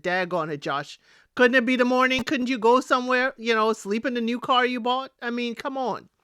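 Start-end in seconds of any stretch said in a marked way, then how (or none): 0.0-5.1 mock-exasperated plea to Josh; exasperated retort. Vlogger scolds Josh over midnight eviction, exasperated. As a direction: scold him, half laughing at it. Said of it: "I said".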